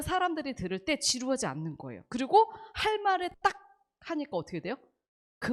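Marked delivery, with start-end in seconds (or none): 2.1-3.5 딱 thrown out much higher and louder; emphasis demo. Shown as a demonstration. Teacher shows the stress she puts on key words, high and loud. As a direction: spike the voice on 딱. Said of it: "강조하고 싶은 거에".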